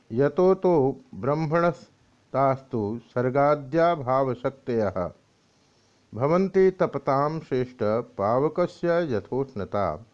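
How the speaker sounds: measured scriptural chant of a shloka; Sanskrit verse recitation. Acted. Reciting Parashara's reply from the Vishnu Purana, solemn chant. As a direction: intone the verse like a reverent reciter.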